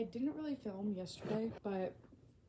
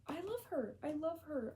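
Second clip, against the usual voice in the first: high, fond gush; adoring squeal; 6 semitones higher than usual. Real, not acted. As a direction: swoon over her. Gushing about a character.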